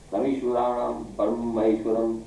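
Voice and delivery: slow, level recital of a Sanskrit verse; Sanskrit recitation. Shown as a demonstration. Teacher showing pupils incomprehensible Sanskrit, slow recitation. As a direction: recite it like a shloka. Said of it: "अब मैं आपके सामने संस्कृत बोल रहा हूँ".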